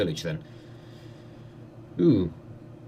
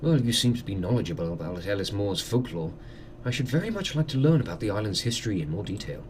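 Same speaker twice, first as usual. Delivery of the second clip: softer, politely curious gentleman; visiting doctor; 4 semitones lower, 4 dB quieter than usual. Acted. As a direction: ask formally, as a curious guest.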